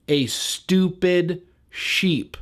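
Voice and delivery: outraged sneer. Acted. Outraged repeat of the insult.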